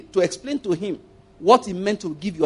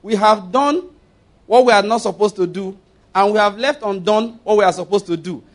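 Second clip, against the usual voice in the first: higher, louder mock church recitation; imitating a congregation confessing aloud; imitated congregational prayer; 3 semitones higher, 5 dB louder than usual. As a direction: recite it like a praying congregation, raised voice. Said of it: "And they were praying".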